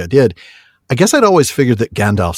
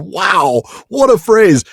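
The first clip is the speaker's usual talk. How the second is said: delighted exclaim; 8 semitones higher, slower than usual. Real, not acted. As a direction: cry out in wonder at the words. Delighted by the phrase.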